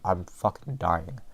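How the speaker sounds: blocked nose from the nosebleed; talking through tissue-stuffed nose. Real, not acted. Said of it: "Sorry, my fucking, ... I took out the tissue in my nose".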